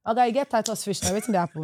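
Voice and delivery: acted market haggler in Nigerian Pidgin accent; casual Naija Pidgin accent; adapted Nigerian accent. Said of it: "adapt my accent a little bit".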